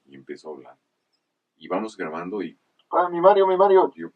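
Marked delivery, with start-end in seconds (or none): 2.9-3.9 high, loud delighted call of the name; excited call. Retold or imitated. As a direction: call out his name, thrilled. Director calls out excitedly. (llamado emocionado y agudo)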